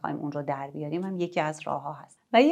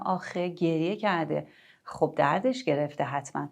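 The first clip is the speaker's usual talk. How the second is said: validating sympathy. Shown as a demonstration. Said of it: "بعد میگم".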